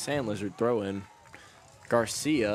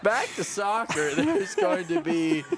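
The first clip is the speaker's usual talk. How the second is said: high pitch effect; 12 semitones higher, 3 dB louder, slower than usual. Real, not acted. Producer playing with voice effects.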